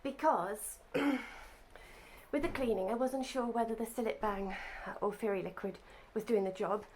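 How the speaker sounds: muffled, talking through a mask; full face dive mask. Real, not acted. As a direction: speak from behind a face mask. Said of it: "I'm talking through a mask".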